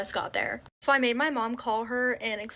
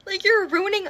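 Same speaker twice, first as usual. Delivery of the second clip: higher and louder, breaking into a laugh on mad; laughing while mad; 6 semitones higher, 4 dB louder than usual. Real, not acted. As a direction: laugh through the anger at the memory. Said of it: "literally crying because I'm so mad".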